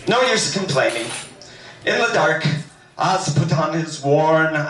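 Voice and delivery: reading with a light, put-on Irish lilt; a gentle mock Irish storyteller's accent; faux Irish lilt. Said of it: "a little bit of a faux Irish lilt".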